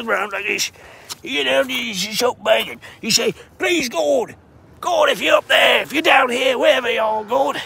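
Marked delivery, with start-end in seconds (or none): 3.6-7.6 mock prayer. Mock prayer calling to God.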